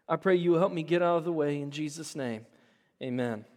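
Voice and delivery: steady earnest prayer voice. Acted. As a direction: pray for the congregation sincerely. Pastor leads prayer.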